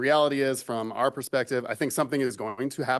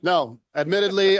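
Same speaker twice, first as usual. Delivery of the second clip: laughing; 7 semitones higher, 8 dB louder than usual. Real, not acted. Laughing after teasing remark.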